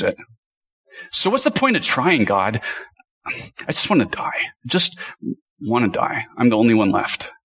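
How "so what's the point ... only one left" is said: lightly acted weary, whiny complaint; mildly hammed-up despair, trailing into resignation; whiny, despairing prophet. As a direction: give up on God with a touch of whine. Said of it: "being a whiny, emotional prophet".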